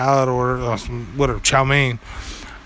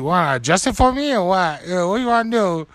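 higher-pitched playful confrontation; mock challenge; 4 semitones higher than usual. Diner daring the waitress to adjust it, mock challenge. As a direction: goad them as if picking a fight. Acted confrontation over attitude.

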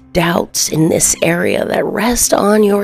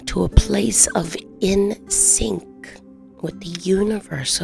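whispering; 5 dB quieter than usual. Acted. Whispered body scan.

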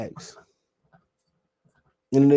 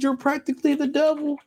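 high and softer, squeaky quote; quoting again; 11 semitones higher, 6 dB quieter than usual. Retold or imitated. Streamer quoting the movie line once more, high and soft. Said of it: "He said".

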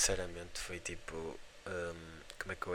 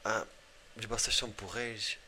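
put-on Angolan accent; 2 semitones higher than usual. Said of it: "mas a falar com aquele sotaque todo".

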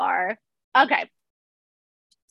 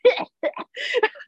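very high-pitched mock cackle; imitated extras' laughter. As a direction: cackle like an overacting background extra. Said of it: "the extras are just like".

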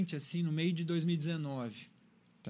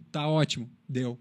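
mildly blunt imitation of a father approving; brief, matter-of-fact approval; curt praise; 3 semitones lower than usual. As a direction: sign off on it in few words. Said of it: "curto e grosso".

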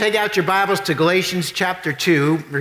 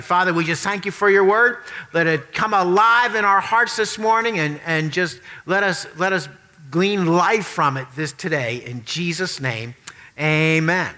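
prayer. Acted. Leads a prayer.

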